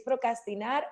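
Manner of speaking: procrastinar with the first r dropped, as procastinar; mispronounced word. Shown as a demonstration. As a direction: say "procrastinar" without its r after the c. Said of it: "¿es procrastinar o pro".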